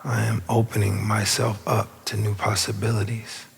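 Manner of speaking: unhurried meditation guide with long pauses; spacious, measured affirmation leading; guided meditation. Real, not acted. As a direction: guide them inward, phrase by phrase. Leads the affirmation.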